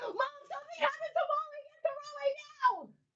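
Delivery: shrill, very high-pitched screaming. Retelling a daughter's phone call about molly: imitating a daughter screaming. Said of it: "she's screaming".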